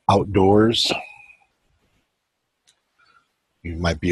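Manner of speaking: measured meditation guide, long pauses between phrases; even, unhurried meditation voice; guided meditation. Acted. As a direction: guide listeners inward, leaving space after each phrase.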